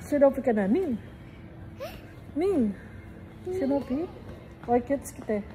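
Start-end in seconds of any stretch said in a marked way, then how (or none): none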